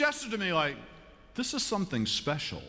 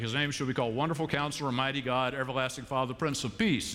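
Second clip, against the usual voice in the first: rattled-off reading; faster than usual. Retold or imitated. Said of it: "Imogene hears this name".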